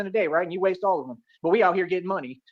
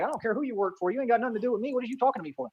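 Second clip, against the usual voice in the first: mocking imitation; 3 semitones higher, 5 dB quieter than usual. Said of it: "these weird people like".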